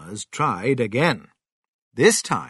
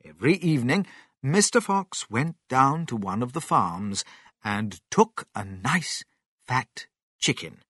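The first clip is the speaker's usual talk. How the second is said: plain reading voice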